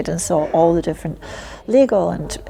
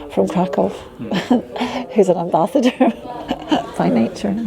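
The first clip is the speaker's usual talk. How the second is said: laughing. Real, not acted. Laughing at her own self-description.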